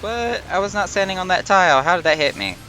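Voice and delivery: raging gamer. Real, not acted. Hit by attack in game.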